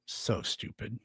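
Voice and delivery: whispered aside. Real, not acted. Muttered aside after comment.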